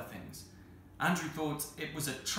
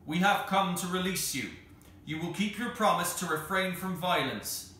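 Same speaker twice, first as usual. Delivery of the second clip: raised voice through a keyhole; 6 semitones higher, 7 dB louder than usual. Acted. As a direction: speak loudly through a keyhole. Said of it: "he said through the keyhole".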